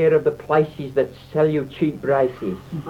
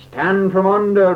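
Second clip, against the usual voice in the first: loud, higher shout from above; roared warning; 5 semitones higher, 7 dB louder than usual. A narrator's reading. John warns people below while falling, a loud roar. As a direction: bellow it down the cliff. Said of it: "roared John from above".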